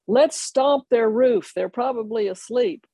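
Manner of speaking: mischievous. Retold or imitated. Friends' mischievous idea, retold.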